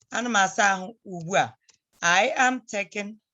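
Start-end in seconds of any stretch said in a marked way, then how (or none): 0.1-1.5 Ana m asa ahụ ugbu a said fast as one phrase; quick run-through. Shown as a demonstration. Teacher running the whole phrase together fast. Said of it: "See how we put that?".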